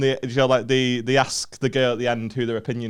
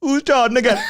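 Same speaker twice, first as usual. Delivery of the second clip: higher, laughing mock repeat; a friend teasing, echoing her with a laugh; Chunks mocking the girl; 11 semitones higher, 4 dB louder than usual. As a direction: parrot her line back through laughter. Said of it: "Chunks just goes".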